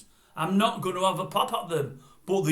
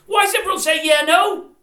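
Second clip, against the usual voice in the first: exasperated; 9 semitones higher, 7 dB louder than usual. Real, not acted. Ranting about yeah no.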